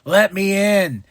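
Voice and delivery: lightly voiced desperate wrestler; mock pleading MJF. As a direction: plead with him, eager. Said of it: "he's like".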